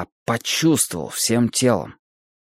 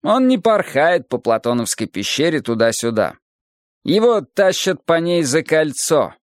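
lightly voiced philosophical teacher, raised pitch; Adonis expounding; 5 semitones higher than usual. Adonis expounds the emptiness of the world, lifted lecturing voice. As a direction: expound it as a patient sage, slightly lifted.

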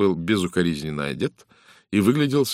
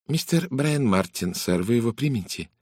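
lightly voiced maid, higher pitch; maid announcing a visitor; 6 semitones higher than usual. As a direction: announce a caller in a higher servant's voice.

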